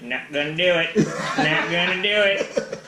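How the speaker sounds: lightly done presidential impression; George Bush. Player riffing on a set-up line, lightly imitated president. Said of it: "a fantastic George Bush spiel".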